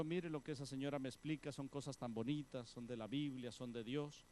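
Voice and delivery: frightened wife softly explains to husband; timid plea. Acted.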